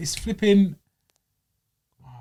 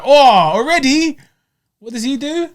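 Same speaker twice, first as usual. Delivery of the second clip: incredulous high-pitched reaction; re-enacted astonishment; 9 semitones higher, 4 dB louder than usual. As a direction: act out a stunned reaction, pitched well up. Acts out own reaction while watching.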